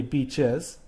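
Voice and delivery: "beaches" in two clear syllables, CH then EZ; plural EZ ending. Shown as a demonstration. Teacher saying the answer aloud, "beaches" with a clear EZ. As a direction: sound out the EZ on "beaches". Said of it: "the C H is a sibilant sound".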